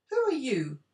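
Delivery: high, loud demand. A narrator's reading. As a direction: demand it sharply. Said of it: "demanded the Tin Man".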